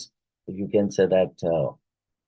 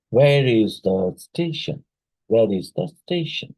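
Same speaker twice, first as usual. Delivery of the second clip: "Where" launched strongly, "station" held up; question-word intonation; 3 semitones higher than usual. Shown as a demonstration. Teacher giving an example of a W H question, question-word intonation. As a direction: hit "Where" to draw attention, keep "station" lifted. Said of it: "slight rise".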